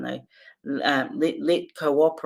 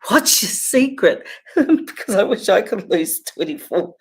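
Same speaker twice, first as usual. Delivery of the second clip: eager question; 5 semitones higher, 5 dB louder than usual. Retold or imitated. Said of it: "I'm said to Dad".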